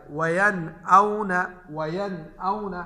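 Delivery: "वयन औना" drawn out with a clear n, no nasal hum; izhar recitation. Shown as a demonstration. Teacher gives students a hamza example, clear unhummed n in "वयन औना". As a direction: recite "वयन औना" slowly, sounding the noon cleanly. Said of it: "बल्कि जाहिर करें".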